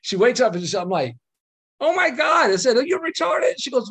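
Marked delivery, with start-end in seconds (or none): 1.8-2.5 retold shocked exclamation. Wife wakes up after water. 2.8-3.5 retold incredulous retort. Retorting to dazed wife.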